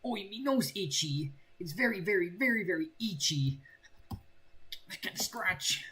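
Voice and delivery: mock cockney British accent. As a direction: do a cheeky cockney itch plea. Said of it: "I can't really do British accent".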